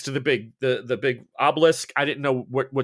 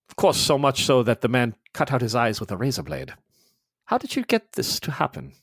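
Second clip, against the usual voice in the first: cool, lightly voiced officer. Mueller questioning Ross about the deaths, lightly voiced. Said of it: "He says".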